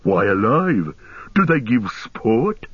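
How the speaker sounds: slow, puzzled orc voice; questioning orc. A narrator's reading. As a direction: demand to know, as an orc.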